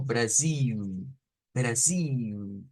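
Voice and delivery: Brasil with a long, held U glide for the final L; drawn-out ending. Shown as a demonstration. Teacher demonstrates Brazilian Brasil, ending prolonged. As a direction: stretch the end of Brasil into a long "iuuu". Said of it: "un poquito prolongado".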